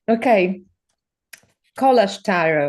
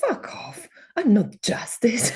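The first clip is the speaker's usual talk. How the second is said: mock protest, laughing; 3 semitones higher, 4 dB quieter, slower than usual. Mock protest at tarot card.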